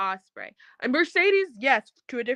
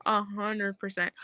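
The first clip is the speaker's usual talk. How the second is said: slow, softer A HUNDRED PERCENT; hushed agreement; 6 dB quieter, slower than usual. Real, not acted. Repeats agreement, slower and softer.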